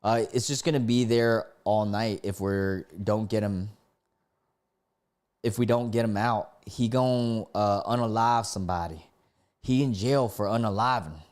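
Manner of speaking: lightly voiced country-accented passenger. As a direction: read it with a mild country twang. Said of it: "let me do this with a country accent".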